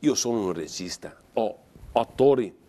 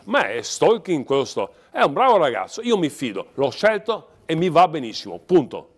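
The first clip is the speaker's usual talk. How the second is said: loud, high heated defence; exasperated, closing the matter firmly; worked-up, emphatic protest; angry; 3 semitones higher, 6 dB louder than usual. Real, not acted. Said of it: "sì, è vero, si arrabbia".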